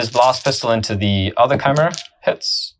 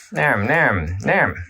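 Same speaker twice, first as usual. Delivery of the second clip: pretend munching; 2 semitones lower, 4 dB quieter, much slower than usual. Voicing models jumping into combat.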